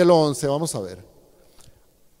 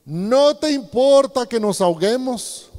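rude reproach; 3 semitones higher, slower than usual. Acted. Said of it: "es una grosería".

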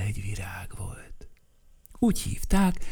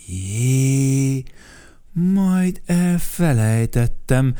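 higher, louder, surprised; 4 semitones higher, 5 dB louder, much slower than usual. Acted. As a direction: gasp as it comes back. Sudden remembering exclamation. (meglepett felkiáltás)

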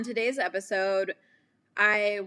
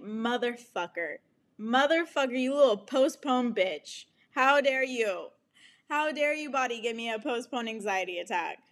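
mock furious rant; 2 semitones higher than usual. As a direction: scold your own body in mock outrage. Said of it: "and I'm like".

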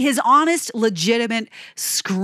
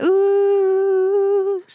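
high held falsetto ooh; 11 semitones higher, 4 dB louder than usual. Retold or imitated. Copying the song's falsetto for viewers, high ooh. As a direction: slide up into a long falsetto ooh. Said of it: "those falsettos".

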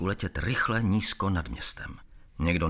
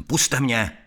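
naléhavé zvolání; 7 semitones higher, 8 dB louder than usual. A narrator's reading. Prodírá se davem k raněné.

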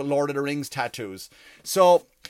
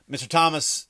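mock butler. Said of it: "butler would call me".

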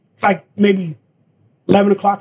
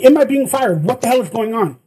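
yelling; 2 semitones higher than usual. Retold or imitated. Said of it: "I start yelling at the producer guy".

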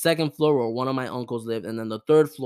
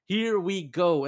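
hyped reaction; 7 semitones higher, slower than usual. Retold or imitated. Retold eager reaction to grandma's hint.

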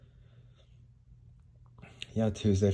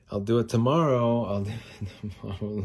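mocking lazy excuse voice; 3 semitones higher than usual.

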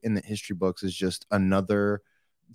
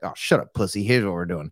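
lower-pitched mock brush-off; dismissive tough guy; 4 semitones lower than usual. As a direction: imitate a buddy cutting off the feelings talk, low. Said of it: "but this is like".

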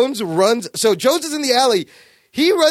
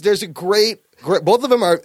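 ordinary talk

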